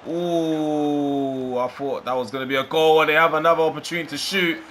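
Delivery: rising pitch and volume as the goal goes in; excited. Real, not acted. Opponent scores, commentator rising.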